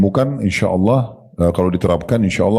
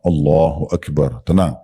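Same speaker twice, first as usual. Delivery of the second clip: slow calm takbir; 4 semitones lower, slower than usual. Shown as a demonstration.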